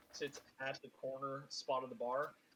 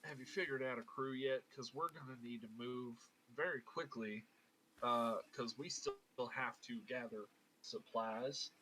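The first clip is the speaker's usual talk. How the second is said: put-on Southern accent. Abel pressing Alabaster about supplies, Southern accent. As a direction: grumble lightly in a Southern accent. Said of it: "I was doing the Southern accent".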